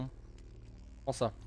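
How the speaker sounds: hushed, slow whisper; sneaky slow whisper. Real, not acted. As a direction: whisper it so the creature won't hear. Sneaking up on a creature.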